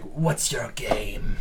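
very slow, suspicious goblin; captured goblin challenging the player, slowly; wary goblin. Acted. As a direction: drag it out, sizing them up. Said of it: "in Goblin, he's like".

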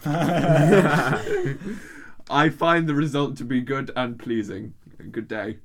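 put-on botched Australian accent; bad Australian accent. Ending the translated email reading, bad Australian accent. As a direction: finish in a poor Australian accent. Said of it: "that was the worst accent I've ever done".

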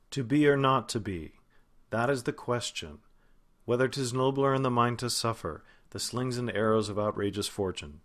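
Hamlet in standard American, falling tune. Shown as a demonstration. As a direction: read it American, letting lines drop. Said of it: "the song of standard American, we have a tendency to go down".

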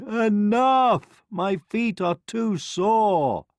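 high, loud royal complaint; exasperated king's outcry; crying out. A narrator's reading. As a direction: cry out from sore feet, slowing to a moan. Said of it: "when the king cried".

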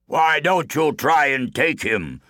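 slow mocking giant challenge; sneering giant; taunting giant. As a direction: dare him.

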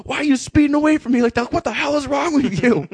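high, loud mock telling-off; exasperated cop impression. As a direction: act out a furious, disbelieving cop. Exasperated cop scolding, retold.

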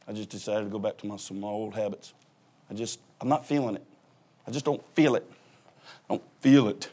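soft, mopey churchgoer making excuses; reluctant churchgoer. Retold or imitated. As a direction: mumble it like a member who's lost the feeling.

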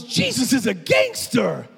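loud, slow, high quoted exclamation; preacher repeating a shop guy's amazed shout; retold shout. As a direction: shout it again as the guy did.

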